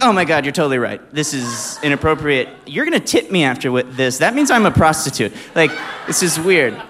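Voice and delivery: loud, hammed-up protest; mock indignation. Imagined objection to the awkward arrangement, in loud mock indignation. Acted flustered protest to each other.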